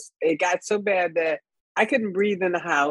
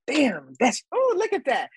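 whispered aside; 6 semitones higher than usual. Real, not acted. Startled aside.

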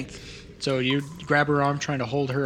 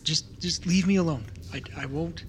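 frightened stammer, words tumbling out; a terrified kid stuttering for mercy; a scared child begging to be left alone; 3 semitones higher than usual. Acted. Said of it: "it's stuttering, it's hyperventilating".

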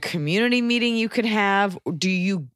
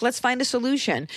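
calm; 6 semitones higher than usual. Shown as a demonstration. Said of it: "a really calm".

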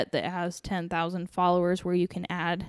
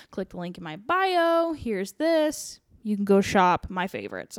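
influencer voice. Retold or imitated. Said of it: "You can just be like".

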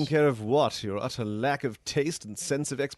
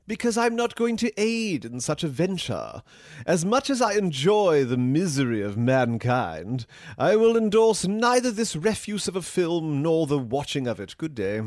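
haughty refusal. Acted. Snobbish AI refusing user.

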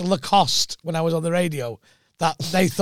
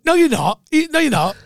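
louder and higher, cutting him off flat; indignant retort; 9 semitones higher, 4 dB louder than usual. Retold or imitated. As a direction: snap back at the heckler in disbelief. Comic heckled, retold indignant reply.

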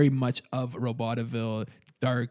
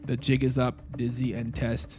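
lightly robotic menace; cold machine warning. Acted. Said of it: "robot voice".

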